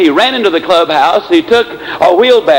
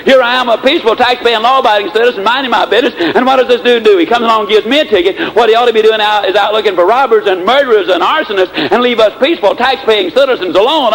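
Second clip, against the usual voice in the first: higher-pitched indignant rant at the traffic cop; furious rant; 4 semitones higher than usual. Acted. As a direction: rant with mock outrage over the ticket. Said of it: "Mister B was absolutely furious".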